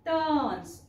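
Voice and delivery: टन्स said alone with a clear a; टन्स said with a full अ vowel; isolated syllable. Shown as a demonstration. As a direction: pull out the syllable टन्स for the class. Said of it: "अ चा उच्चार होतो".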